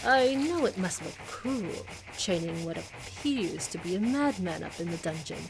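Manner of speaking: lightly voiced bored aristocratic villain. Voices villain reading dialogue.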